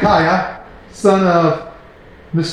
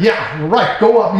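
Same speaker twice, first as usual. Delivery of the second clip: sarcastic. Acted. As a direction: brush it off with mild mock agreement. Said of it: "he's being sarc".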